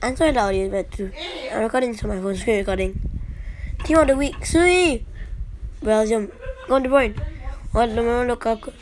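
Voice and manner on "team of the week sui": celebration shout. Real, not acted.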